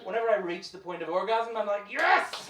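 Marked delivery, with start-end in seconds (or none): 1.9-2.5 high, loud mock cry of pleasure; ecstatic yes. Orgasm cry.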